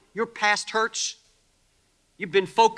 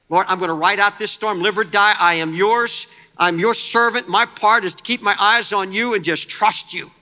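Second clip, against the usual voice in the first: earnest prayer; 5 dB louder than usual. Acted. Preacher voicing a trusting prayer.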